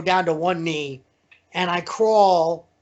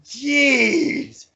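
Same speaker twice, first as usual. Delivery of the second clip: acted pained reaction; 8 semitones higher than usual. Reacts in pain to second chop.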